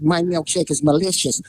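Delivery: lightly voiced boxer impression; a hint of the boxer's way of talking; Mike Tyson. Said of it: "talk like Mike Tyson".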